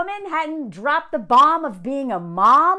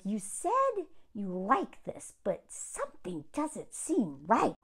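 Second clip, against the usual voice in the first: Southern women speak; 4 semitones lower, 10 dB quieter, slower than usual. Retold or imitated. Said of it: "Southern women speak".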